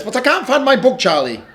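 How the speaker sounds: upset small sister; whiny Lola. Acted. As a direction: wail it like a child who lost her toy. Lola upset, book missing.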